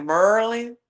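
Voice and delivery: Merlin said the DMV way, ending on a rise; "Merlin" as locals say it, rising at the end; DMV pronunciation. Shown as a demonstration. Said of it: "because of how they say".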